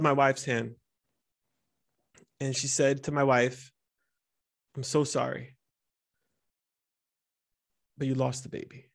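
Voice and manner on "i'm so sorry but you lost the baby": sad. Retold or imitated. Doctor gives the bad news.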